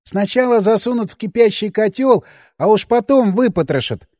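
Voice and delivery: lightly voiced fussy man-child; correcting Albertik. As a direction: set it right, fussily. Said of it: "неточным пересказом".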